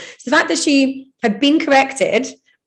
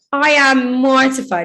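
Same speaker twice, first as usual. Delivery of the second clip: mortified; 3 semitones higher, slower than usual. Retold or imitated. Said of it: "And she's like".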